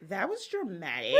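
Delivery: said through laughter; laughing quote. Retold or imitated. Teller quoting girlfriend while laughing. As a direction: giggle it out. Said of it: "she's like".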